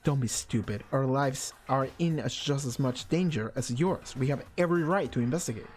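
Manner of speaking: haughty heir, bored; cold Togami. Acted. Togami retorting.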